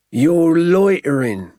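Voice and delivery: high, loud and slow, officious; menacing keeper. Acted. Keeper accusing the poachers, slow threatening voice. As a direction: lay down the charge slowly.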